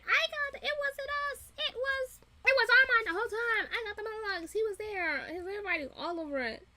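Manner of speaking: high, frantic mock defence; hammed-up panic, blaming someone else to save your skin; squeaky-high acted protest; panicked pleading. The speaker frantically blaming Armand to save himself.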